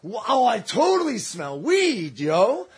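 acted-out wowed stoner reaction; retold amazement. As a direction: marvel slowly, stretching the words. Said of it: "I was like".

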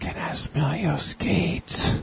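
high, slow put-on voice; put-on creepy request. Joking fan asks to smell roller derby skates, slow put-on voice. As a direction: stretch it out in a silly high voice. Repeats suggested line in put-on voice.

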